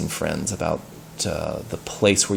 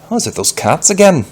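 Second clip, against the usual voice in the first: higher, fast startled cry; alarmed; 9 semitones higher, 6 dB louder, faster than usual. Acted. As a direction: gasp it out in alarm. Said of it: "said Peter in alarm".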